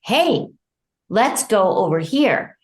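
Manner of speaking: a caregiver gently steering a parent away; gentle redirect. Shown as a demonstration. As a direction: lure her along kindly. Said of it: "a yelling and a reprimand versus".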